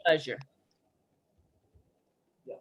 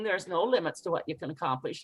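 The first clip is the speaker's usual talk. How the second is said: fast, dismissive preaching; hurried, preachy brush-off; rushed preachy; 4 semitones lower, 5 dB quieter, faster than usual. Shown as a demonstration. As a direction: rattle it off like a lecture. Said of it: "or me preaching".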